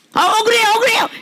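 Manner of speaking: high whiny cry of injustice; mock wail of unfairness; mock protest. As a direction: squeal it like a wronged member. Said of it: "이렇게 금방 열지 말고".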